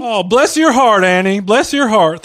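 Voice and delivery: hammed-up Southern belle sweetness; mock Southern belle. Mock Southern reply to twang remark.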